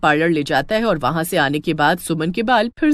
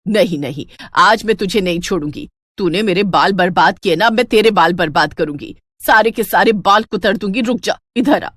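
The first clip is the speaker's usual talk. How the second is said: angry threat. Acted. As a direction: chase her down, threatening. Chasing with scissors. (कैंची लेकर पीछा करती सास की गुस्से भरी धमकी)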